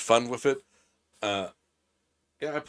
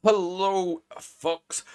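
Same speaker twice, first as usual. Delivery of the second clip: louder, higher pitched hello; big greeting; 10 semitones higher, 4 dB louder, much slower than usual. Real, not acted. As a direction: boom out a welcome. Loud greeting to raiders.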